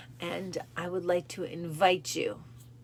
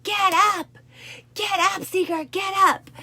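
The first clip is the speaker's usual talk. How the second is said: high, loud barked order; drill instructor yell; 14 semitones higher, 10 dB louder than usual. Retold or imitated. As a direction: bark her back to her feet. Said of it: "And he's like".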